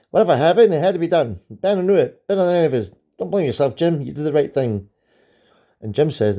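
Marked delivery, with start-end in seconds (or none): 0.1-4.9 loud, high, declaiming a general's solemn line; dramatic comic reading. Acted. A comic fan reading the general's speech, dramatic and loud. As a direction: boom it out like a stage general.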